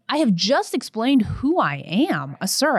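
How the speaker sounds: ordinary talk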